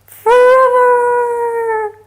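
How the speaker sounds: high, very slow, stretched out; dramatic echo. Pretend. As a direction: draw forever out like a movie trailer. Dramatic echo of previous line.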